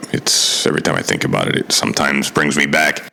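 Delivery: holding back tears as the memory comes back; choked up. Real, not acted. Remembering missing out on childhood, choked up. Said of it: "I'm getting a little choked up".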